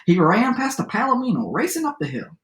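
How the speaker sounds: lively storyteller read-aloud with swooping pitch; story narration. A narrator's reading. Teacher reads a favorite adapted fairy tale aloud, lively storytelling. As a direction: read it to children as a tall tale.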